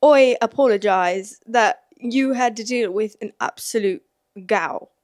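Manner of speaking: slow, hammed-up Irish turning English; botched Irish accent. Shown as a demonstration. Rereading an apology on behalf of Ireland, botched Irish accent. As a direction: badly fake Irish, starting loud, "oi" for "I". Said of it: "Why am I doing an English accent?".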